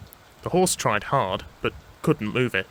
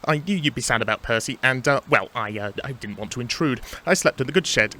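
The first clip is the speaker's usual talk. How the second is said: hesitant, fumbling explanation; stammering excuse. Acted. Thomas explaining where he has been, stammering. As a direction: hunt for words, embarrassed. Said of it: "stammered Thomas".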